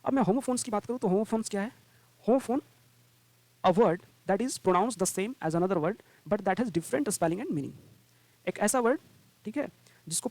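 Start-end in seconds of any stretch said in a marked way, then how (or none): 2.2-7.7 a definition read word by word, very slowly; slow dictation. Shown as a demonstration. Teacher dictating the homophone definition, very slowly. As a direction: spell it out slowly so students can take it down.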